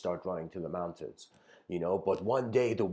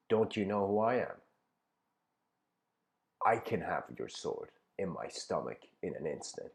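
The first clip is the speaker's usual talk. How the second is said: calm smiling reply; 3 semitones lower, 4 dB quieter than usual. Retold or imitated. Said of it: "And he smiles".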